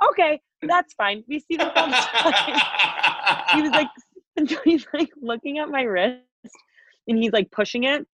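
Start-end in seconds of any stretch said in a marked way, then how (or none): 0.1-5.1 high, slow, laughing imitation of a doctor; laughing retold reassurance. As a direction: voice the doctor while cracking up. Retold doctor, teller cracks up.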